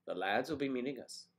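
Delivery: Irish lilt rising on the phrase; Irish accent attempt. Shown as a demonstration. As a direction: have another go at Irish. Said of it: "Ireland, I believe it's lads".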